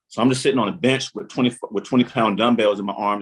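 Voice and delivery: usual speaking voice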